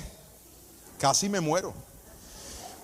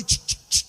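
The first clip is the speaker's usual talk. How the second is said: unvoiced clacking of the coaster climbing; imitated ratchet. Preacher mimics the roller coaster climbing the track, unvoiced clicking. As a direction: click it out like the chain pulling up.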